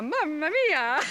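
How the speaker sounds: high, loud mock exclamation; Nadal. Handler retelling a tennis player meeting the hawk, hammed-up amazement. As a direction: imitate an astonished player, hammed up. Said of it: "and Nadal was".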